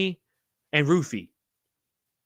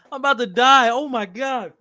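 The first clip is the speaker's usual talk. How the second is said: out of breath; 5 semitones higher, 5 dB louder than usual. Real, not acted. Gasping after choking.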